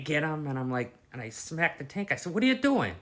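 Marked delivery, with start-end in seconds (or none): 2.3-2.9 high, loud startled shout at the dinosaur; startled yell. Retold or imitated. Yelling at cartoon dinosaur.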